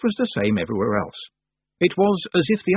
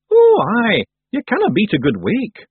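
loud, high Scots character voice; high, boisterous Feegle; hearty Feegle; 12 semitones higher, 7 dB louder than usual. Acted. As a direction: cheer it on loudly as a little Scot. Rob Anybody joins in.

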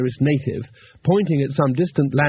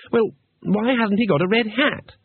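Two Flower; 9 semitones higher than usual. Acted.

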